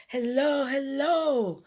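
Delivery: loud, high sing-song greeting; cheerful calling at the front door; 1 calling hello. A narrator's reading. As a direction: call it out through the door.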